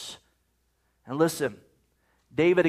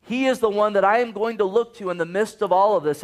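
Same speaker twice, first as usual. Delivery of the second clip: determined declaration; 4 semitones higher than usual. Retold or imitated. David determined, crying out.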